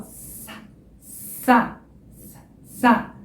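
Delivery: "sa" with the throat buzzing on the vowel; voiced sa. Shown as a demonstration. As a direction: say "sa" and feel the A vibrate. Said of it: "repara que quando entra o A". ("sa" com voz na vogal)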